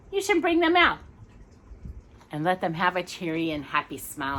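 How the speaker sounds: gentle storybook reading; reading to children. Acted. Parent reading Raggedy Andy to a child, gentle storybook voice. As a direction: tell the tale to a small listener.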